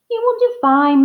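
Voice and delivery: proud. Acted. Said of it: "Miss Bird said proudly".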